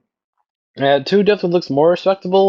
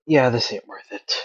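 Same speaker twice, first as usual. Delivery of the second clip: understated, lower and softer, giving up; resigned sigh; 5 semitones lower, 5 dB quieter than usual. Acted. Girl giving up on the other two, resigned. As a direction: let it drop like a mild weary sigh. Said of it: "She just sighs and says".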